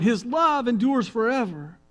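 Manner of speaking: loud, high answering cry; crowd shout. Retold or imitated. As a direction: shout it back as the whole people. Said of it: "all the people would shout".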